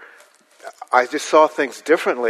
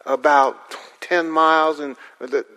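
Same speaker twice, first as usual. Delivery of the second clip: rural local; 4 semitones higher than usual. Retold or imitated. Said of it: "They'd say".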